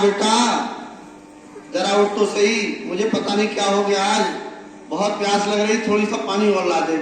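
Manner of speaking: imitating a loving mother. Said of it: "माँ ने फिर प्यार से कहा".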